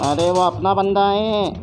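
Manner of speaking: urgent warning. Real, not acted. Player warning her teammate off their own squadmate, urgent. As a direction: stop them before they shoot a friend.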